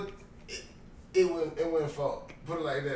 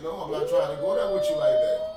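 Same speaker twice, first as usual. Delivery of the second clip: much higher, louder refusal; high-pitched retold protest; 6 dB louder, faster than usual. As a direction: squeal the refusal high and loud.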